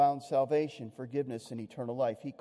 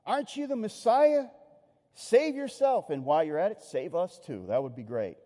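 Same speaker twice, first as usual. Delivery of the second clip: sarcastic insult; 3 dB louder than usual. Retold or imitated. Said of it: "hurled insults at him".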